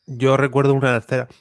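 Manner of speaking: blocked-nose voice from a cold; nasal voice. Real, not acted. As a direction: speak through a stuffy nose. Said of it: "que estoy constipado".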